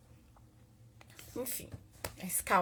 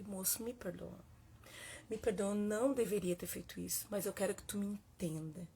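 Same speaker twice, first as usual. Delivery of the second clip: pleading apology; 4 dB quieter than usual. Retold or imitated. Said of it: "eu continuei pedindo perdão".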